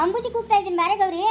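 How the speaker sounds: high, fake sweet call; forced smiling call. Ambuji retries calling Gauri in high fake sweetness. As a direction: sing her name with a forced smile. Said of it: "ನಗು ನಗ್ತಾ ಕೂಗು".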